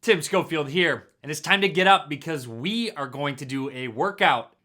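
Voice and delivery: loud, lightly voiced personal trainer; a hint of a pumped-up trainer, projected. Host jokingly opening a workout video, lightly played loud trainer. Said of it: "That was my best personal trainer impression".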